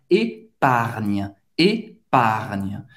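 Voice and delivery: épargne ending on a firm gn; épargne with a strong final gn; strong French gn. Shown as a demonstration. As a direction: stress the gn of épargne. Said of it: "é um pouco mais forte do N H".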